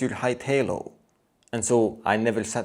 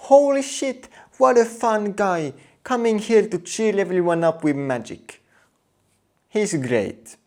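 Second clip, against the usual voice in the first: higher, excited crowd gushing; excited praise; 8 semitones higher than usual. Retold or imitated. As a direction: gush about the fun guy. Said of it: "building up a reputation of".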